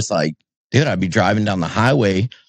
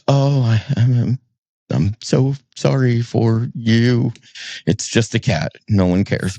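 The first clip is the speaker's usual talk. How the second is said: fake sympathy.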